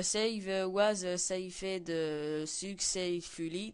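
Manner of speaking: English words in a heavy French accent; a French gamer reading English menu text in a thick French accent; bad English accent. Real, not acted. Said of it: "désolé pour mon accent pourri".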